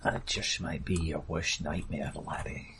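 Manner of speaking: put-on low, menacing Scottish accent. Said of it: "trying to do a Scottish accent".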